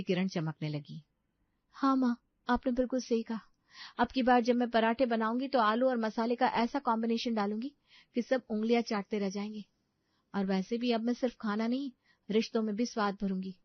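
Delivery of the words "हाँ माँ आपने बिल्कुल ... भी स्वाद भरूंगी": lightly voiced higher young-woman role; determined daughter. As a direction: answer mother with hopeful resolve. Voices Sapna answering her mother.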